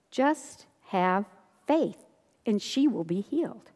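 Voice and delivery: soft, measured, with pauses; gentle reassurance. Acted. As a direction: reassure quietly, letting each phrase rest. Voicing Jesus reassuring the father.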